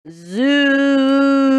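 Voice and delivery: high, loud gleeful zoom; excited zoom. Pretend. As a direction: shout it as you race off. Gleeful zoom while racing across.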